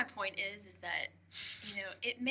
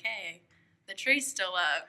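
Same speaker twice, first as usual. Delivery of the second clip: drawn-out, louder mock announcement; imitating his wake-up call; 6 dB louder, slower than usual. Teasing him over how he woke her, slow mock call-out. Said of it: "that was your way of, like, being like".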